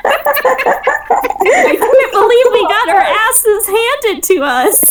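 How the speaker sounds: real laughter through slow words; laughing. Real, not acted. Player laughing at the game master's pun, slow words. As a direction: laugh while getting the words out.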